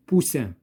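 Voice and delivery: "Poussin" with a hissing, voiceless S; S prononcé S. Shown as a demonstration. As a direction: say "Poussin" with a clear s sound, never z. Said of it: "se prononce S". (« Poussin » avec le son S bien net)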